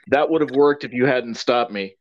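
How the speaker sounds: calm, deadpan quote; understated and matter-of-fact; Ramis. Retold or imitated. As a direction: say it very calmly, as a retold line. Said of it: "Ramis just very calmly just goes".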